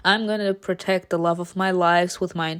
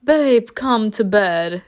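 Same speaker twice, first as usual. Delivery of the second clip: wife; slower than usual. Retold or imitated. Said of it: "and the wife, uh, keeps on".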